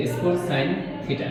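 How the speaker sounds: slowed, each word set apart; slow dictation. Shown as a demonstration. Teacher repeating for students to copy, slowed. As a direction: say it slowly again for writing down. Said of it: "লিখো যে".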